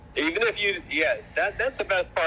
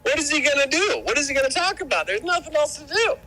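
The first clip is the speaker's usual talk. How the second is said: mock disbelief; 11 semitones higher than usual. Mock disbelief about a streamer.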